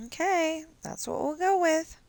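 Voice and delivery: talking through corn chips; chewing noisily. Real, not acted. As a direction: mouth full while speaking. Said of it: "I'm sorry I'm eating corn chips".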